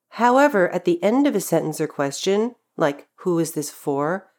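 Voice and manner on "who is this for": "for" at the end with its full 'or' vowel; fully pronounced for. Shown as a demonstration. Teacher showing the sentence-end exception, "for" fully pronounced. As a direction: slowly, sound the final "for" like four. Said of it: "the word is fully pronounced".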